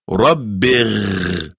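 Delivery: "Rabbir" with a throaty gargled r, like gh; gargled r sound. Shown as a demonstration. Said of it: "like a gargling sound".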